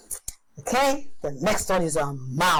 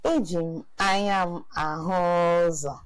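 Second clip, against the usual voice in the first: fast call-and-repeat drill; much faster than usual. Shown as a demonstration. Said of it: "Can you do that with me?".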